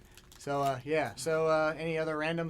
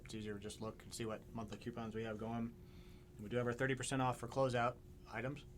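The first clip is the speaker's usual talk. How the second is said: talking through a mouthful of candy; words round a chewy candy; chewing while talking; 2 semitones lower, 6 dB quieter than usual. Real, not acted. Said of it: "Sorry, I'm chewing on Skittles".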